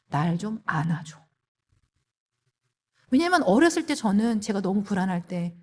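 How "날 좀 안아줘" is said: soft, low, slow plea; tender request. Retold or imitated. Wife asking husband to hold her, tender request. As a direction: ask gently, taking your time.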